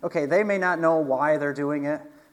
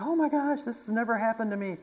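much higher, a touch of sobbing surprise; crying woman; 8 semitones higher than usual. Retold or imitated. The crying woman at the bayou, high and overwhelmed. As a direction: squeak it out like a stunned stranger in tears. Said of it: "she's like".

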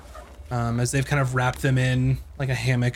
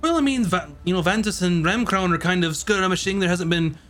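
lightly voiced, higher-pitched chatty local; 6 semitones higher than usual. Filling travellers in on the bridge, lightly voiced and chatty. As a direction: play a talkative local, pitched a little up. Game master plays chatty informant.

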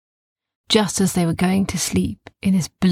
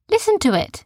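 put-on insistent girl; 12 semitones higher, faster than usual. Sophia insists.

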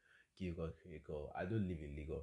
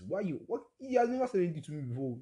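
outraged; 11 semitones higher, 7 dB louder than usual. Real, not acted. Outraged retelling.

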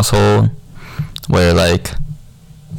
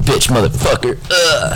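mock Korean accent; 6 semitones higher than usual. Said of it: "This is Korean".

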